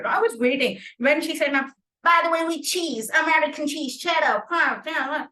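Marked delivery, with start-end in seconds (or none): 1.5-5.3 playful imitation of an American accent, pitched up. Mentor showing the speaker the accent her Subway story needed, American accent. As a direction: put on a higher American accent for the quote. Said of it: "brought in that American or British accent".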